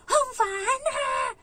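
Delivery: very high, drawn-out tantrum shriek; imitated child's scream. (matinis at mahabang sigaw ng batang nagwawala)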